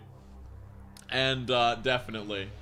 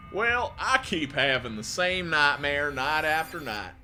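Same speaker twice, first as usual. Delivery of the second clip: cowboy accent; 2 semitones higher, 4 dB louder than usual. Shown as a demonstration. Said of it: "Going for, like, a Cassidy voice".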